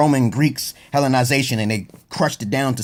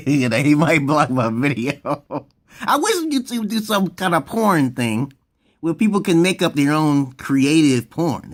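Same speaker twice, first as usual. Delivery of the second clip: slow, laughing talk; laughing through words; slower than usual. Real, not acted. Joking about YouTube porn, laughing as he talks. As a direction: chuckle through it.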